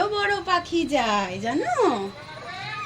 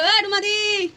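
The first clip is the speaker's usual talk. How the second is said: put-on higher call for baby to copy; calling out demo; 5 semitones higher than usual. Shown as a demonstration. Mother showing her baby how to call Ruma di. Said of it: "বলো".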